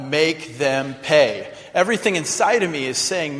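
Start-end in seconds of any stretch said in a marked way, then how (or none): 0.0-1.5 slow vengeful growl. Retold or imitated. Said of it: "I'm just screaming out".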